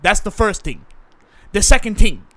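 defensive South London man, pleading his case; put-on South London accent; South London actor character.

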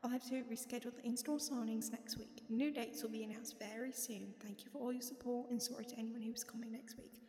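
lightly put-on British accent. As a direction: keep up the attempted British accent. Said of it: "this is my British accent".

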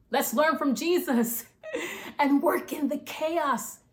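laughing and breathless. Real, not acted. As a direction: laugh through the words. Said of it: "Got excited. I ran out of breath".

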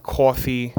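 coffee with a Long Island aw, kaw-fee; New York coffee. Shown as a demonstration. Host showing how he says coffee, New York aw. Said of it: "you can kinda tell how I say the word".

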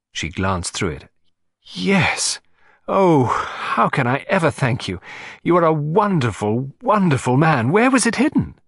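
high, excited lady gushing thanks; a grateful aristocrat who can't contain her delight; gushing society lady. Acted. Client thanking detective for her letter, high and gushing.

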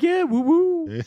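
high, slow, laughing woo-woo; laughing imitation. Retelling the bartender, high slow laughing imitation. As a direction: laugh through the bartender's line. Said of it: "He's like".

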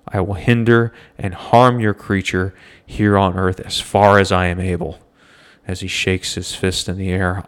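a hint of a vengeful rival; sputtering foiled villain. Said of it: "pull off a dramatic reading like that".

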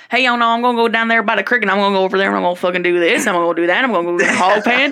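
rapid-fire Southern drawl, run together; hurried country Southern ramble. Acted. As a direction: rattle it off in a thick Southern accent. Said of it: "the subtle southern drawl out of my voice".

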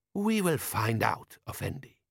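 slow, deliberate desert-man voice; Jabbar. A narrator's reading. Desert man answering Vimes about lurking enemies, slow and deliberate.

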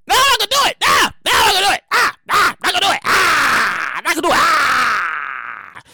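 hammed-up refusal with wails; mock tantrum. Mock fit refusing to pay.

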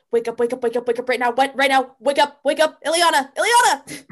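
urgent, rising pleading to wake her; frantic wake-up call building to a cry; frantic urgency. Acted. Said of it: "with still a frantic sort of urgency".

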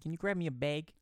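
light Michigan twang on bag; Michigan accent. Shown as a demonstration. Cohost showing how Michiganders ask, Michigan accent. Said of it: "Oh, he's from Michigan".

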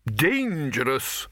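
put-on high, slow, firm old wizard; deliberate, emphatic wizard's voice; firm Arch-Chancellor. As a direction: lay it down firmly as the master. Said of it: "said the Arch-Chancellor firmly".

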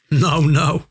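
lightly amused, teasing reassurance; chuckling. A narrator's reading. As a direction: say it with a touch of a chuckle. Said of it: "grinnikte Jan".

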